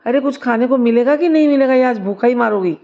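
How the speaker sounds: hammed-up hungry mother-in-law yelling through the house; impatient calling out. Mother-in-law yells at daughter-in-law for lunch, loud impatient call. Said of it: "सास ने फिर आवाज़ लगाई".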